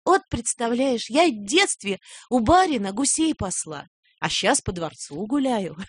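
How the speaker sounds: lightly voiced country aunt, drawing out words; imitated peasant aunt. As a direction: retell it as your aunt marvelling, slowly. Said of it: "Моя тётя Анюта ... она говорит".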